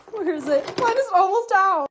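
ordinary delivery

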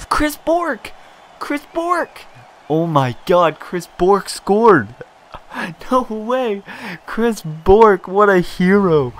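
high, loud, overjoyed shouting; ecstatic yelling. Real, not acted. Streamer to his viewers, shouting the goal in real joy. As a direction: cheer it like your player just scored. Player scores a surprise goal.

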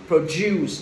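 Produce with d sounded like j, pro-JUICE. Shown as a demonstration. Teacher shows students the d sound, "j" pronunciation. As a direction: turn the d of Produce into j. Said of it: "produce âm chờ".

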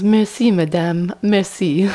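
loud imitation of effusive thanks; grateful foreign man. German man commends her attempt, hammed-up grateful thanks in French. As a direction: thank her loudly, hamming it up. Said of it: "commends my attempt to speak German".

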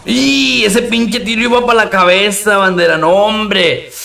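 exclamación aguda y alargada de susto; asombro real. Real, not acted. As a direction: reacciona asombrado, con la voz arriba. Reacción a un tiro en el juego. (sorpresa aguda en plena partida)

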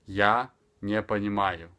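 "Я не понимаю" slowly, pausing after "Я"; careful, spaced teaching delivery. Shown as a demonstration. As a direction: draw the phrase out for a learner. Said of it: "speaking extremely slower".

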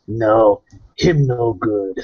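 a slight in-character snarl; slow, understated snarl of disapproval; mild snarl. Acted. Warrior priest disapproving of another prisoner, mild snarl. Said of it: "I kinda snarl at him".

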